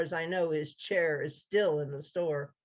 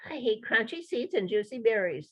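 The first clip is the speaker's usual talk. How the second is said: squeaky mouse; 4 semitones higher than usual. Acted. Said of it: "replied in a squeaky voice".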